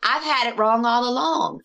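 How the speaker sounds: imitating a father suddenly speaking plainly; clear as day. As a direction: retell it as a clear, sudden realization. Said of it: "he's speaking just like that".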